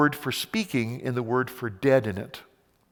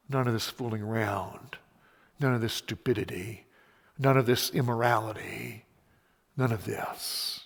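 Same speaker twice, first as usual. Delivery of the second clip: softer, stressing none each time; hushed repeated none; 3 semitones lower, 7 dB quieter than usual. Acted. Preacher warning the congregation, hushed emphatic none. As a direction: press each none softly.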